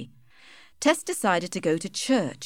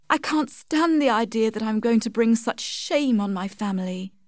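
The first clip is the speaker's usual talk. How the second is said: higher voice, a touch of anguish; lightly voiced distressed Tess; 4 semitones higher than usual. Tess explains her tears to Alec, lightly voiced distress. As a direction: play an ashamed young heroine, pitched up.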